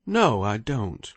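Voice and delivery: firm, deliberate no; a calm, decided denial; decisive denial. Acted. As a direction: shut the idea down slowly and firmly. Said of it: "quickly and decisively".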